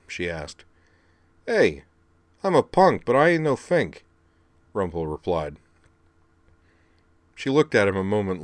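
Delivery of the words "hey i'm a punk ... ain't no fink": much higher, brash punk voice; scrappy robot kid. Acted. Rumble scolding his brother, brash high punk voice. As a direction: needle him like a cocky kid brother.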